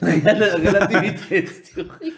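drawn-out giggling word; laughing. Real, not acted. Laughing at the topic.

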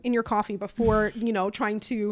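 mock self-scolding. Mock self-scolding about the elevator story.

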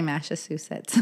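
Massachusetts said as "Mashasusets"; mispronounced Massachusetts. Real, not acted. Admitting she can't say it, Massachusetts garbled as "Mashasusets". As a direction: swap the sh and s in Massachusetts. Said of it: "I can't say Massachusetts".

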